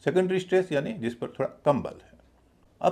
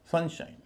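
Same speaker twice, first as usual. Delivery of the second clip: सन higher, शाइन lighter; stress on सन; 5 semitones higher than usual. Shown as a demonstration. Teacher modelling a compound noun, stress on सन. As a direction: lift सन and relax शाइन. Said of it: "सन पर थोड़ा अधिक stress है".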